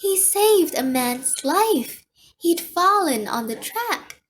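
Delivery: high, loud shout through a door; yelling. A narrator's reading. Unseen visitor defends her story through the door, yelling. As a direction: yell it out so it carries. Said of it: "yelled the garage door".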